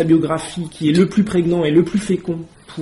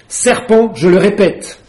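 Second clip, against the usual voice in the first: a higher, louder accusing cry; angry pigeon; 3 semitones higher, 7 dB louder, slower than usual. A narrator's reading. Pigeon insisting Alice is a serpent, loud and angry. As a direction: hammer the accusation at her. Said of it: "répéta le pigeon".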